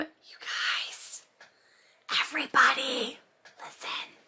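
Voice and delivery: urgent, frantic, hushed whisper, words spaced out. Opening the episode, the host hushes the fans, whispering frantically. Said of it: "*whispering frantically*".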